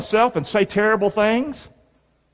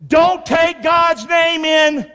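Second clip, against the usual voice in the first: high, stretched-out prompt; congregational prompt; 6 semitones higher, much slower than usual. Shown as a demonstration. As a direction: draw out each word for the crowd to finish. Prompting congregation to finish line.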